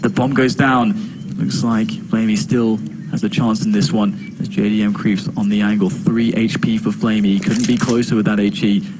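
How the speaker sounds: tense live play-by-play; esports caster. Real, not acted. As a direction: call the round live, tension rising.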